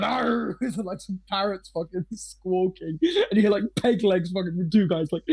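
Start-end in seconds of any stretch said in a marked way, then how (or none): 0.0-0.6 higher-pitched rousing "arr"; mock crowd of pirates roaring approval; erupting pirate cheer. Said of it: "erupts, like, you hear a bunch of".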